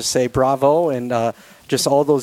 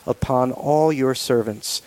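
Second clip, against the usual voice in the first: steady, reverent prayer voice. Real, not acted. Leads the closing prayer.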